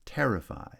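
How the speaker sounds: "Terrify" with a high, strong first syllable; first-syllable stress. Shown as a demonstration. Teacher showing stress patterns, first-syllable stress on "Terrify". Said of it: "has stress on the first syllable".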